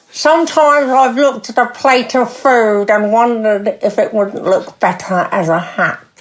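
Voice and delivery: put-on London accent, throaty, teeth forward. Asked to read a sentence aloud in the London accent, London accent, teeth and throat. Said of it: "say that in in the the London accent with the with the teeth and the the the throat".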